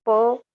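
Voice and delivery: प called out loud; प stressed as a demo; syllable pa demo. Shown as a demonstration. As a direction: say प as pa with the inherent a.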